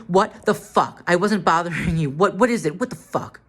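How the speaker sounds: mildly exasperated, voice rising in pitch; retold indignant protest. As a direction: retell an indignant "what's your problem" retort. Retelling his indignant comeback in quarrel.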